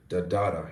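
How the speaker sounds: da, da, da as a rhythm demo; stress-timed rhythm. Shown as a demonstration. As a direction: beat out the stress pattern on da, da, da. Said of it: "You see the rhythm?".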